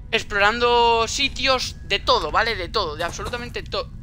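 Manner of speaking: talking through hiccups; words broken by hiccups. Real, not acted. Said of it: "tengo hipo". (con hipo)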